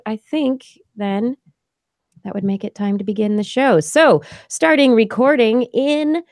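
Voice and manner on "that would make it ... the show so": ordinary talk, nothing marked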